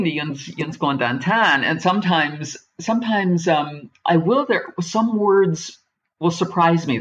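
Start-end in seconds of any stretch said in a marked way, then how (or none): 0.0-1.6 Pittsburgh yinz. Shown as a demonstration. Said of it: "I know the usual thing".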